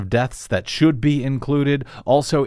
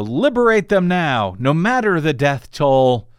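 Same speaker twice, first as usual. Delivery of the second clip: bitter mock slogan; mock all-caps; 2 semitones higher than usual. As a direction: say it like an all-caps tweet, half-mocking. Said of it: "I said that in all caps".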